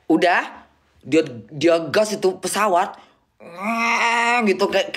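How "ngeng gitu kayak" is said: engine noise imitation. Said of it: "kayak becak mesin".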